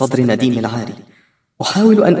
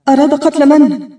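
incredulous question; 13 semitones higher, 4 dB louder than usual. Acted. Daughter challenges mother's verdict.

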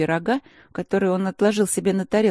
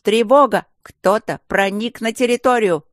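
loud, higher, breathless raised alarm; 5 semitones higher, 7 dB louder than usual. Acted. Gargoyle flies in raising the alarm, loud and out of breath. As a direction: burst in gasping out the warning. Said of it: "запыхавшимся голосом".

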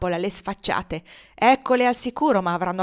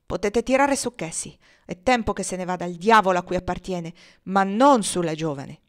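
loud commands; 4 dB louder than usual. Acted. Legree commands his men.

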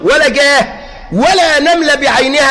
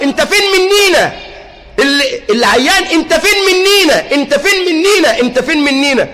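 mock reproach; 3 semitones higher than usual. Repeated blaming voices.

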